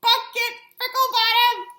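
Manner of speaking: high, loud squeaky puppet greeting. Acted. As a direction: greet the kids as a cheery puppet. Puppet host greets kids.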